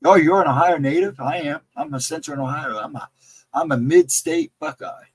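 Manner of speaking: a light impression of a friend's voice; lightly voiced friend asking about Ohio; his voice. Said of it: "But he has that voice".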